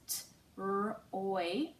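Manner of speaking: "t, r, oi" as separate speech sounds; isolated sounds "t", "r", then a held "oi"; sounding out. Shown as a demonstration. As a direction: say "t, r, oi" one sound at a time. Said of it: "Second syllable is".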